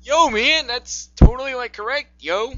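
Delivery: lightly voiced "yo, man" dude; hippie dude talk. Reader teasing the co-host as a dude, lilting put-on voice. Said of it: "please don't talk like that".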